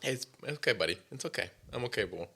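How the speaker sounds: calm the pup gently; soothing a scared dog. Real, not acted.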